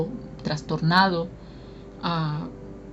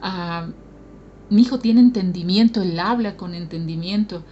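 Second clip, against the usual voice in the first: proud praise; 4 dB louder than usual. Retold or imitated.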